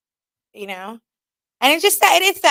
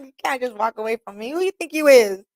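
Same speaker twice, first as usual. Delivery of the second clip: mock angry. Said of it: "that made me more mad".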